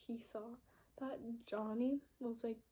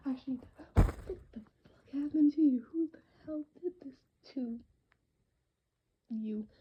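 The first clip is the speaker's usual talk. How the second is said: alarmed outrage; 3 semitones higher, 8 dB louder than usual. Acted. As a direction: demand answers, loud and alarmed. Acts Derry finding Johnny beaten up.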